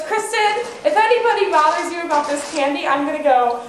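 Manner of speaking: high, loud mock British accent with laughter; stoned friend doing a British accent. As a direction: imitate a friend's put-on British accent, giggling. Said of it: "He always talks in a British accent when he gets high".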